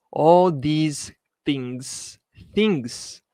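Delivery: very slow, stretched repeat; slow model reading. Shown as a demonstration. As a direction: drag out ALL for emphasis. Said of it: "teacher repeats slowly".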